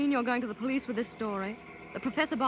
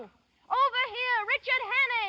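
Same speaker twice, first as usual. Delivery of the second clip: calling out; 12 semitones higher, slower than usual. Acted. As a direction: draw the men over with a long call. Woman calls men to Hannay.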